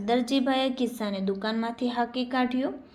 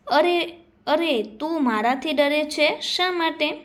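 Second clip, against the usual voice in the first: higher, louder "arre", then a slower question; exclaim, then ask in a raised voice; acted concerned question; 5 semitones higher, 4 dB louder, slower than usual. Surajdada asks the pocket why it fears him, acted concern.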